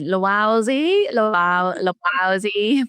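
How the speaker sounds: slow, drawn-out Uber voice saying Lowowsy; a hint of a robotic app voice reading a name; robotic mispronunciation. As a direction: mimic the app's mangled Lowowsy. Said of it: "recorded voice kept saying".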